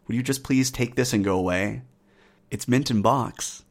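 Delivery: lightly voiced, hushed nervous bargainer; nervous appeasing Briton. Voicing a Briton offering tribute.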